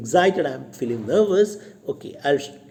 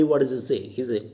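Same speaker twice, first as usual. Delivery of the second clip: ordinary delivery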